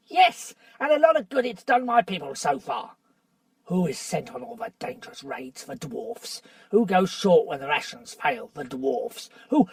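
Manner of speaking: aggrieved dwarf listing wrongs; bitter dwarf. Acted. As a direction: hammer each complaint home. Nickabrick complains bitterly.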